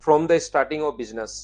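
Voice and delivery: reads the English phrase slowly, word by word; slow, deliberate reading of the question's wording; slow careful reading. Shown as a demonstration. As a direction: point out each word as you read. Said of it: "ये लिखा हुआ".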